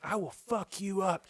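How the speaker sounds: high, slow mock threat; assertive mom. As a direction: imitate an assertive mother threatening someone. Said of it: "Just assertive".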